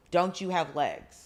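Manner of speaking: slow, mildly scornful question; mock berating. Manager berating employee over broken elevator, slow mock scorn. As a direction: drag it out like an unimpressed boss. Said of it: "berating this female employee".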